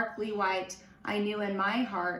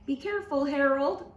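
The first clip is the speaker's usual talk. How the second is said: mom screaming; 5 semitones higher, faster than usual. A narrator's reading. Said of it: "I heard my mom scream".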